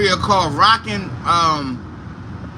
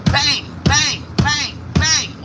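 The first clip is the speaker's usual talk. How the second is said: spoken bangs, higher pitched; imitated banging; 5 semitones higher, much slower than usual. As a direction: bang it out in slow, separate hits. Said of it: "I hear bang".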